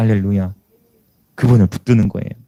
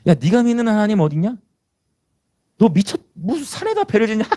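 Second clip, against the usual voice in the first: acted jeer, pitched up into a taunting question; mocking crowd; 6 semitones higher than usual. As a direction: scoff at a fool in a higher voice. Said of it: "사람들은 끊임없이 나를 조롱해".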